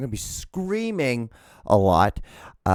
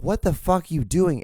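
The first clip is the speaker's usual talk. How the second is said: high-pitched mock disbelief; raised pitch, bewildered but not shouted; baffled reaction; 7 semitones higher than usual. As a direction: retell it as an incredulous question. Retells baffled reaction to video.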